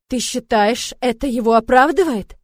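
loud, cold fury; father's furious tone. A narrator's reading. Brother challenging his sister, loud furious tone. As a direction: let the rage rise like his father. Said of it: "переходит на тон ... отца, когда тот в ярости".

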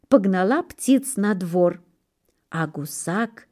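plain reading voice

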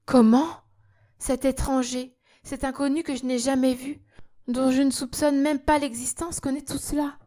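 stunned woman crying out; cry of astonishment. Acted. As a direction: burst out as if unable to believe it. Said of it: "ne put arrêter un cri de stupéfaction".

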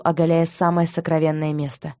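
usual speaking voice

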